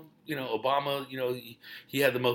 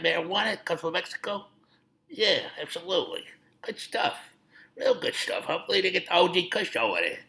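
James Gandolfini impression; 3 semitones higher than usual. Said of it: "That was, uh, the great James Gandolfini".

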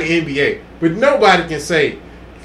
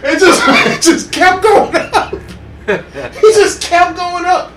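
excited; 9 semitones higher, 3 dB louder, slower than usual. Real, not acted. Excited retelling of the dunk.

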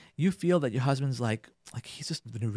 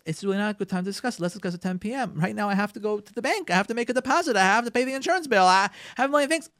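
busy spouse putting it off; 5 semitones higher than usual. Retold or imitated. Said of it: "They can say to their wives".

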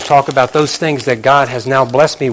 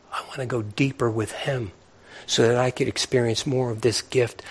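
whisper; 7 dB quieter than usual. Real, not acted. Whispered longing to go deeper.

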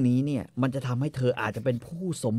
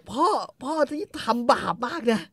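reproachful daughter; 13 semitones higher, 4 dB louder than usual. Retold or imitated. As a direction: scold her father for his sin. Kay scolding father. (ต่อว่าพ่อเสียงสูงและช้า)

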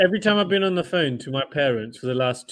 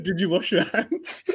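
laughing quote; 3 dB quieter, slower than usual. Retold or imitated. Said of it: "he said".

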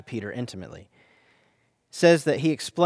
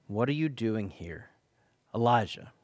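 soft, hushed voice of the Lord, much softer; gentle whisper; 5 semitones lower, 7 dB quieter than usual. A narrator's reading. The Lord gently asks Elijah in the cave, hushed whisper. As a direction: breathe the question gently, almost silent. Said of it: "it was asked in a whisper".

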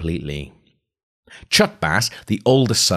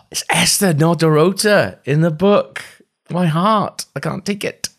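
much higher, breathless delight; fangirl gushing; 11 semitones higher, 5 dB louder than usual. Real, not acted. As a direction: gush like a thrilled fan. Fan gushing about book detail.

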